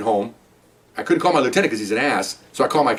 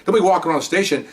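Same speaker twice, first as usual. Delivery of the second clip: higher, indignant retelling; angry officer telling off his superiors, higher and heated; heated retold reproach; 3 semitones higher than usual. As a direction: push back hard on the captains. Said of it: "I mean, I'm hot".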